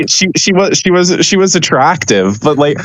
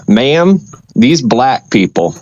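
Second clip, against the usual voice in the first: put-on Southern accent; slower than usual. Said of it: "put in a Southern accent and be like".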